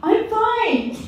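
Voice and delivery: snapped high and loud, "I'm fine."; clipped defensive "I'm fine"; mock curt denial. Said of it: "Mom, you got your angry face. What's wrong?".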